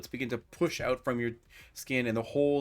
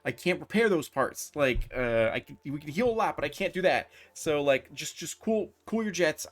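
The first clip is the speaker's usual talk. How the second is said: higher, stammering plea; intimidated pleading; 4 semitones higher than usual. Acted. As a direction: hastily talk down someone threatening you. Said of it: "you're able to intimidate him".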